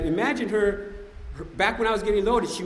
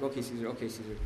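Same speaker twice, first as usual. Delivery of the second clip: soft, low placating murmur; retold soothing partner; 6 semitones lower, 10 dB quieter, faster than usual. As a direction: imitate calming someone down gently. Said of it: "she's grabbing my arm".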